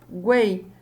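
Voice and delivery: slow "Guei" in a single beat; one joined syllable. Shown as a demonstration. Teacher isolating the triphthong, said as one syllable. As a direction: hold "Guei" together as one sound. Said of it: "uma sílaba só".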